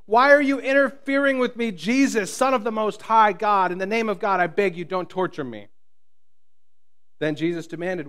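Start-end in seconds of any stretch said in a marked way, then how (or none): 0.0-5.7 high, loud panicked cry that fades into begging; shrieking plea. Acted. Possessed man to Jesus, begging with a loud shriek. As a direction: start with a shriek, then plead. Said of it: "with a shriek, he screamed".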